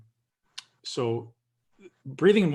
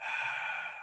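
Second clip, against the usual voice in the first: demo exhale; 10 dB quieter than usual. Shown as a demonstration. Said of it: "training your nervous system to relax".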